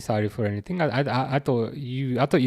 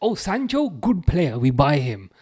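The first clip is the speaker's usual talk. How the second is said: light, slight put-on Indian accent, just a hint; 2 semitones higher than usual. Discussing a club's signings, the speaker voices its thinking in a slight Indian accent. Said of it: "I don't know why slight Indian accent came out there".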